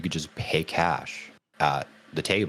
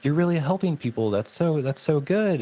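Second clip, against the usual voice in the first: much higher, fast mock praise; imitating Gimli actor; 11 semitones higher than usual. Fan mimics the actor praising her work, high and fast. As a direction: rush out high praise like a doting uncle. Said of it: "He's like".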